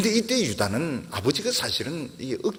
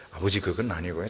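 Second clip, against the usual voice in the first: calm, slow explaining; 7 semitones lower, 4 dB quieter than usual. Retold or imitated. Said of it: "천천히 설명을 하면".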